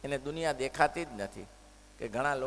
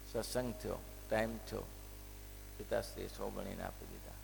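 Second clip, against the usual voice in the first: usual speaking voice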